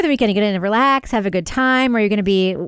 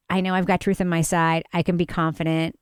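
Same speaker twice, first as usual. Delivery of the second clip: calm confident prosecutor; 2 semitones lower, 3 dB quieter than usual. Retold or imitated. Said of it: "a good prosecutor comes off like".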